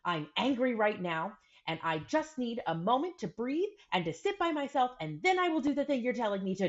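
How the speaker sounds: a hint of a calm five-year-old voice; voicing her son. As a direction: mom lightly imitates her son naming his anger. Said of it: "he was like".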